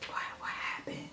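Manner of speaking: whispered puzzlement to oneself; under-the-breath confused muttering; bewildered whisper. Retold or imitated. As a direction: breathe it out almost without voice, baffled. Acts out baffled walk home.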